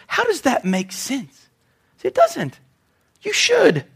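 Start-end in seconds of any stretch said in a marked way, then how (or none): 2.0-3.8 emphatic rebuttal. Real, not acted. Pointed rebuttal to congregation.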